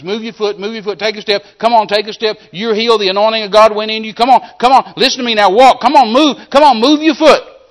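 high, loud commanding yell; preacher yelling at a paralyzed man to take a step; urgent yelling. Retold or imitated. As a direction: shout him forward, no letting up. Pulling man to walk.

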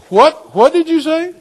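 very loud, high-pitched shock; startled question. Retold or imitated. Driver to the voice from nowhere, startled. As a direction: re-enact a yelped, astonished query.

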